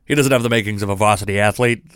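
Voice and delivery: quick, lightly voiced mobster impression; Junior Soprano. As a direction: toss off a half-hearted character impression. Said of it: "that's a bad impression".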